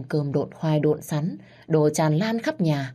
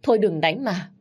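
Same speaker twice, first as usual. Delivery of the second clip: crying plea; 4 semitones higher than usual. Acted. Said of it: "Má tôi cứ khóc và van xin".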